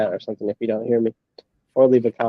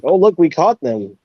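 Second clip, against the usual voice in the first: mock excitement, higher and louder; mocking quote; 6 semitones higher, 5 dB louder than usual. Mimicking streamers showing off their catch, mocking. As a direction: imitate their gloating, pitched up.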